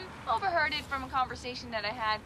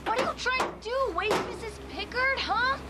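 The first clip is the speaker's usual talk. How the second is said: scolding; 5 semitones higher than usual. Acted. Scolding friend for noise.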